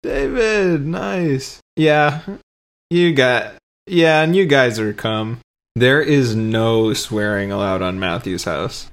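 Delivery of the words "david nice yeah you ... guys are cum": high, slow, drawn-out cheer; excited cheering. Retold or imitated. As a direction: cheer him on like happy friends. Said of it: "And everybody's like".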